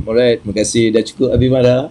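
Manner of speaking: low, composed thanks; calm reply. Acted. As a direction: answer anger with unruffled politeness. Models calm reply to angry person.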